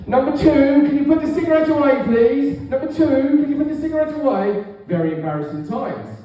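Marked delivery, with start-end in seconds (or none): 0.1-2.6 high, loud call over the forecourt speaker; tannoy announcement. Retold or imitated. Attendant calling over the tannoy to the smoker. 2.6-4.6 high tannoy call, repeated; tannoy announcement. Retold or imitated. Attendant repeating the tannoy warning.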